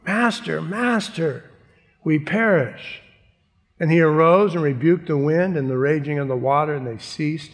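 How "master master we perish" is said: freaking out. Retold or imitated. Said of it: "they were freaking out".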